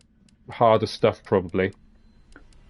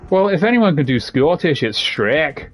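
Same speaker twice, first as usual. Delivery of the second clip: rough attempt at a Scottish accent, higher at the start; put-on Scottish accent; 4 semitones higher, slower than usual. Shown as a demonstration. Streamer shows chat an accent, mock Scottish. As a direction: do an amateur Scottish brogue with lilting pitch. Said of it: "deep apologies to all the Scottish people".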